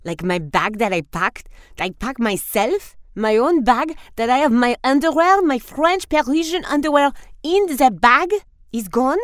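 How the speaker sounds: building from disbelief to loud indignation; rising outrage over the missing bag; outraged diva. Acted. Diva discovers lost bag.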